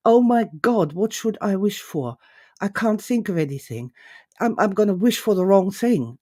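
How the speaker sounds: flustered, spiralling freak-out, lightly acted; mock panic. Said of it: "complete downward spiral of freak out".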